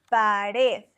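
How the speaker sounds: Pared stressed on its final syllable, RED; stress on last syllable. Shown as a demonstration. Teacher giving the quiz answer, Pared stressed on its last syllable. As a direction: put the emphasis at the end of Pared. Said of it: "The stress is on the last syllable".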